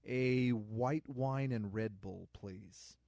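slow, deliberate, mock-serious request; dad joke order. A party guest offered a drink, slow and mock-serious. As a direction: savor the silly combo slowly. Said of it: "I'm like".

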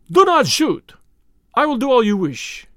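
high, loud frightened plea; panicked surrender. Acted. Russian begs Julius as count ends, panicked. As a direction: cry out in panic, then give in.

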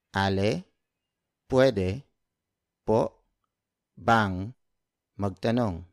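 "Ale, pwede po bang magtanong?" broken into single words with pauses. Shown as a demonstration. Teacher to learners, slow word-by-word drill. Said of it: "So word for word".

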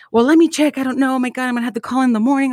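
high, rushed fretting; panicky husband. Retold or imitated. Mimicking husband fretting over the insurance, high and rushed.

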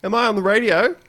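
elated radio caller. Acted. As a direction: play a wasted, blissed-out phone-in caller. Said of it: "he's having the time of his life".

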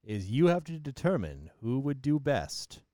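judge voice. Acted. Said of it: "Back to Judge Voice".

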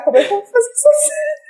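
mock tearful panic. Actor dreading a scene with her idol, mock tearful panic. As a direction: voice climbing high and fast into a whine. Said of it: "mas ela me faz chorar".

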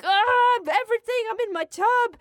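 delighted high cry; blissed-out squeal. Retold or imitated. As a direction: squeal like all is right with the world. Giddy in the bathtub.

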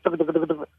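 quick tucka tucka mouth call; tucka call demo. Shown as a demonstration. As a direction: rattle off tucka like a duck call. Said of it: "you can also go tucka".

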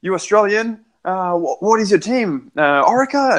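light up with delight at the news; high, eager voice of a cycling-mad Belgian; excited customs officer. Retold or imitated. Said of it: "he was just, like, so excited".

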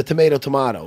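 tomato, first tomayto then tomahto. Shown as a demonstration. Host making a point about saying the same thing: tomato said two ways. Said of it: "We were saying the same thing".

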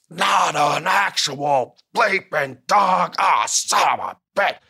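exasperated boss. Retold or imitated. Boss exploding at a wrestler who growled, high and slow. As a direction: blow up like a boss who can't believe it.

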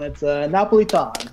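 Napolitan in a light Italian accent, nah-po-lee-TAHN; a hint of an Italian accent on Napolitan. Shown as a demonstration. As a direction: say Napolitan the Italian way, rolled and open. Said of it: "I'll have to use my Italian accent for that one".

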